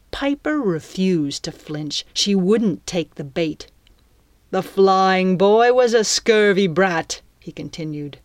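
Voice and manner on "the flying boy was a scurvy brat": louder, contemptuous pirate villain; pirate captain. Acted. Captain scorns the captive's father, contemptuous pirate voice. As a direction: play the pirate captain insulting an old enemy.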